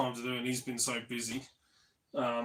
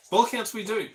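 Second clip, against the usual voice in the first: 1 mock posh accent; 10 semitones higher, 7 dB louder than usual.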